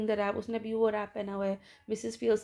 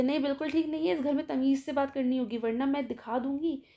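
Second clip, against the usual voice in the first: mild stern retort; 2 semitones higher than usual. Retold or imitated. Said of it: "कहते".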